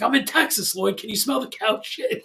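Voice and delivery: a hint of Ari Gold's brag. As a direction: toss off the Entourage line as Ari. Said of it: "Ari Gold does it in, in Entourage".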